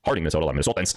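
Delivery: rough attempt at a Minnesota accent. Host greeting Minnesota viewers, attempted Minnesota accent. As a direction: try a light, unpractised Minnesota accent. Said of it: "brush up on my Minnesota accent".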